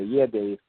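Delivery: "Yeah, Dave" then a held silence; pause after the name. Shown as a demonstration. Showing how they would put it, pausing after "Dave". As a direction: say "Yeah, Dave" and stop short of the next phrase. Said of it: "and they'll pause".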